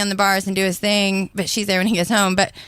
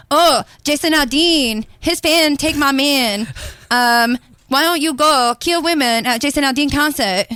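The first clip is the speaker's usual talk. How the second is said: put-on Vietnamese accent; 3 semitones higher than usual. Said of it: "I do a good Vietnamese accent".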